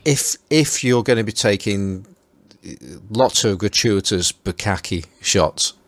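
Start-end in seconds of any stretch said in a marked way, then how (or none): 4.3-5.1 "bukkake" said with a Stoke accent for bokeh. Real, not acted. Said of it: "I don't think you pronounced that word".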